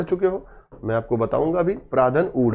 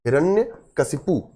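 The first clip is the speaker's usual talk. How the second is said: slow, syllable by syllable हिरण्यकशिपु; teacher dictates the spelling slowly; spelt out slowly; slower than usual. Shown as a demonstration. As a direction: stretch हिरण्यकशिपु out as hi-ran-ya-ka-shi-pu. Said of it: "इसकी वर्तनी मैं आज बता देता हूँ".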